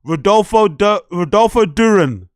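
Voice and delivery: loud shout at the guest, last words slowed and laughing; loud jokey telling-off; mock angry shout. Real, not acted. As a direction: yell it at the screen, half joking.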